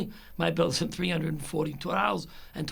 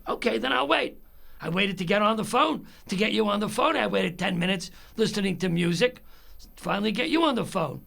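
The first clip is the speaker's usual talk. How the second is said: exasperated retort, pitched up; mad; 3 semitones higher than usual. Retold or imitated. Caller who waited ten minutes on hold, exasperated. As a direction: retell it as a fed-up complaint, starting high. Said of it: "then I get mad".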